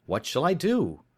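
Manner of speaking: put-on worried young client explaining; young visitor. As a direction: voice the anxious visitor. Openshaw's dialogue voice.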